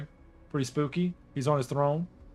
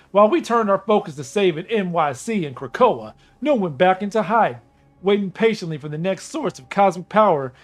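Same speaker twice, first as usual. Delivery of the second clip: gruff, cocky raccoon voice; a wisecracking space mercenary; Rocket Raccoon. Acted. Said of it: "with Rocket Raccoon talking".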